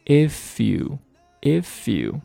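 "if you" slow, as i-fyou; "if you" joined with no gap; linked. Shown as a demonstration. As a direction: carry the F into YOU in "if you". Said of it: "if和you连读".

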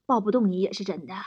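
low, softened husband voice; mock tender. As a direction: confess with mild mock devotion. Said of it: "深情地说". (略带深情地低声表白)

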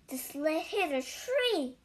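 lively read-aloud with clear, measured phrasing; animated storytelling, words carefully spaced; children's story narration. A narrator's reading. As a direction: read a picture book to young children.

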